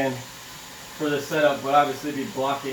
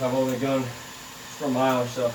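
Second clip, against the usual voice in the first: out of breath. Real, not acted. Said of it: "I'm already out of breath".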